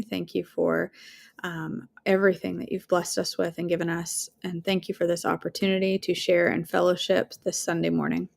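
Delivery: closing prayer. Real, not acted. Ending the morning in a word of prayer, sincere.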